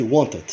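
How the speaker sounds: wanted ending in a T sound; final D as T. Shown as a demonstration. Teacher reminding learners how to read wanted, D as T. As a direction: pronounce the D of wanted like a T. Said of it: "o D a gente lê como T".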